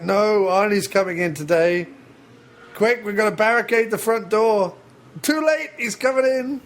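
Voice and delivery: rising pitch, hammed-up alarm; panicked shop worker raising the alarm, pitch climbing; mock panic. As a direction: play up the dread as it builds. Store workers dreading Arnie's arrival.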